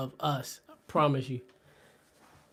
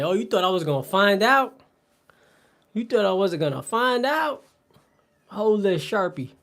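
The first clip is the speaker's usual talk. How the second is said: raised, higher taunting barber; mock angry barber; 4 semitones higher, 4 dB louder than usual. Barber confronting Boozer over his girl, mock angry. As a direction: taunt him like a jealous barber.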